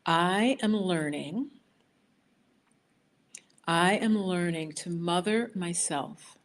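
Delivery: slow, drawn-out affirmation with long pauses. Shown as a demonstration. To the viewers, reading the affirmation very slowly first. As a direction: lay out each phrase slowly for the group. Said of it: "I'm gonna repeat it very slowly first".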